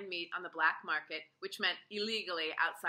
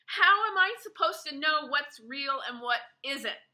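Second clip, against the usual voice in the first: higher, louder angry shout; 7 semitones higher, 8 dB louder than usual. A narrator's reading. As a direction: yell it out in frustration. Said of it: "I shouted".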